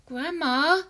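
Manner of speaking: put-on high, loud frightened boy; boy crying out. A narrator's reading. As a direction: cry out in panic. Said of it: "he cried out".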